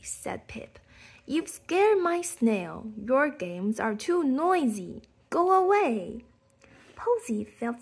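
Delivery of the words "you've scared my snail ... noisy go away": cross scolding. Acted. Pip scolding Posy for scaring snail.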